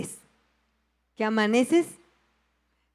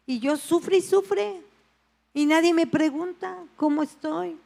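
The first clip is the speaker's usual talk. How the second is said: mock self-pity; 5 semitones higher than usual. Believer envying a calm brother, mock whiny and higher. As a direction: whine that nobody asks about you.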